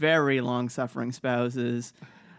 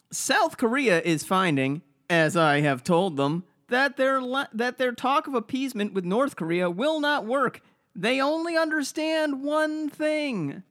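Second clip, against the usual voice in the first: pompous Trump voice, higher; Trump impression; 8 semitones higher than usual. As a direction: bombastic presidential read. Reading Trump tweet in mock voice.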